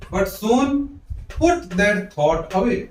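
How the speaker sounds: slow, linked, no breaks; one unbroken slow phrase; read as one phrase. Shown as a demonstration. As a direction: read the whole line in one flow. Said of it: "ये पूरा एक साथ पढ़ना है".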